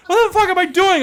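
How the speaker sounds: high, laughing disbelief at himself; laughing panic. Retold or imitated. Teller running with soldiers at his own folly, high laughing panic. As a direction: blurt it out, half laughing, half panicked. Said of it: "and I'm like".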